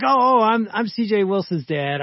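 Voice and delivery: startled dad explaining himself; flustered surprise. Retold or imitated. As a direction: caught off guard, scramble to explain. Caught off guard by teacher.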